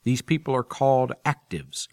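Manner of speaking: smooth announcer read of the audiobook intro; podcast promo read. Acted. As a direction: read it like a radio host introducing a serial. Podcast host reads promo and intro.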